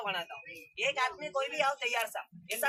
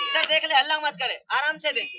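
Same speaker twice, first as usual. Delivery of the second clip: louder, firm, telling people to hush; loud call to the crowd; 6 dB louder than usual. Real, not acted. Street magician telling the noisy crowd to hush, loud and firm.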